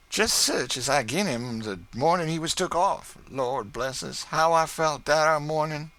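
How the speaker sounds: put-on high, chatty old cook gossiping to her mistress; bubbling over with homecoming joy; Chloe's cheerful dialect voice. Chloe tells her mistress of her husband, high chatty voice.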